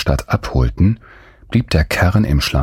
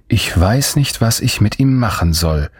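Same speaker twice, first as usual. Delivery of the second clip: groaning worry; 5 semitones higher than usual. Acted. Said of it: "stöhnte sie".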